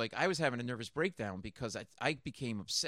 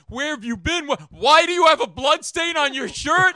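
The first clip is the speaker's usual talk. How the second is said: shocked partner; 12 semitones higher, 17 dB louder than usual. Retold or imitated. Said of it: "He goes".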